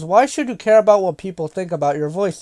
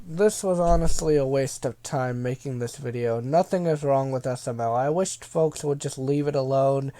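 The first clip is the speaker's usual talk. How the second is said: sarcastic reading; 5 semitones lower, 6 dB quieter than usual. Retold or imitated. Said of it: "thanks for the courtesy of me reading this comment".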